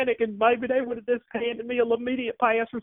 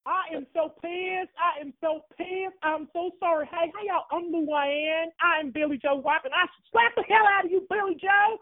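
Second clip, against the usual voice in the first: angry Southern woman. Acted. Caller plays Luann, angry fan.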